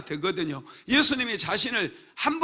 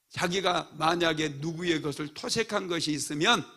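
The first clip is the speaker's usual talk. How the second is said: ordinary talk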